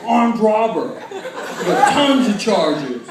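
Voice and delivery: slow, mock-proud drawl; tough-guy brag. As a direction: puff yourself up like a gangster. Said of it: "I'm like".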